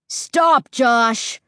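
loud, commanding shout; loud order. Acted. Ray ordering Josh to stop, a loud command. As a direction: order him to halt, no request. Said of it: "more like an order than a request".

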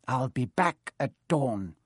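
nasty. Acted. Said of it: "he added nastily".

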